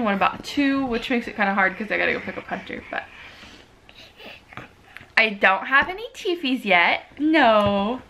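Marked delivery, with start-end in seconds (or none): 5.2-7.0 voicing the baby. Mother voices baby's words.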